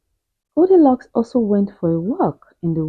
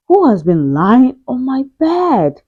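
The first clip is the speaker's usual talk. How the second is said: medium-sized voice; 3 semitones higher than usual. Acted. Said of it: "she asked in a medium-sized voice".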